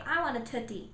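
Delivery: "Tootsie" for cookie, T replacing K; child's mispronunciation. Shown as a demonstration. Child asking for a cookie, saying it wrong. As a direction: imitate a child fronting the K into "Tootsie". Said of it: "They said it wrong".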